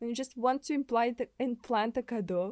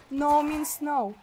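slow, weighty no means no; firm refusal; 3 semitones higher, 6 dB louder, slower than usual. Acted. Streamer scolding a game character, slow firm refusal. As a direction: lay down the law, each word deliberate.

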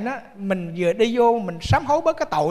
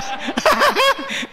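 laugh; 10 semitones higher than usual. Real, not acted. Laughing at old men.

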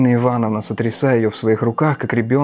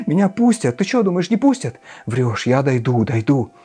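high, frantic, accusing widow's voice; a desperate woman hurling accusations, pitched high; 4 semitones higher than usual. Acted. Katerina Ivanovna demands they search her, high and frantic.

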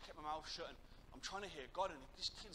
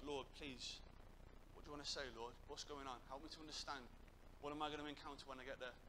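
quiet pleading prayer; 6 dB quieter than usual. Retold or imitated. Youth leader asks God for guidance, quietly pleading. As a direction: retell an inward prayer, hushed down. Retold private prayer under pressure.

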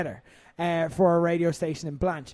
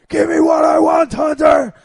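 much higher, much louder shouted demand; mock shouting match; 9 semitones higher, 10 dB louder than usual. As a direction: bellow it like a wrestler in a screaming match. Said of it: "one saying".

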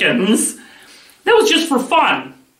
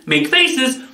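higher, upbeat call of Make faces; called command; 5 semitones higher than usual. Shown as a demonstration. Teacher calling the next game move, higher. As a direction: announce the next move brightly.

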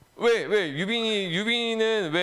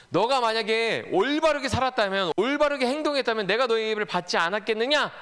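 higher-pitched, insistent rhetorical challenge; God questioning Cain; 6 semitones higher than usual. Acted. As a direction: press the question like a reproving God. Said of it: "하나님 이렇게 얘기하시면".

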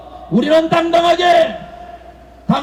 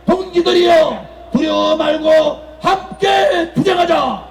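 roaring rallying speech; 2 semitones higher than usual. Acted.

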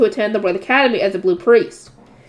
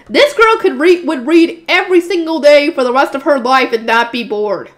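louder, eager comment on the heroine; excited aside; 3 semitones higher, 5 dB louder than usual. Real, not acted. Reader comments on the heroine's obsession, loud and eager. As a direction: gush about the bookworm.

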